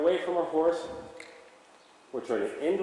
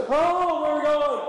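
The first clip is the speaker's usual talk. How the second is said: much higher, louder surprised horse voice; a startled, eager horse voice; excited horse; 13 semitones higher, 7 dB louder than usual. Retold or imitated. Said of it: "the horse goes".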